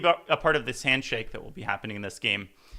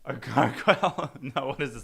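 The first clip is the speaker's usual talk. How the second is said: laughing. Real, not acted. Amused at being called gargoyle.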